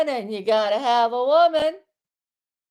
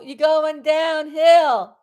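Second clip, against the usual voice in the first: scolding yell; 3 semitones higher, 4 dB louder, slower than usual. Real, not acted. Streamer scolding men on live YouTube, slow yell. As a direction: drag it out as a loud rebuke. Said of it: "Am I yelling?".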